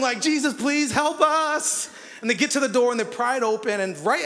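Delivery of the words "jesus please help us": mock frightened prayer. Mock prayer while crawling.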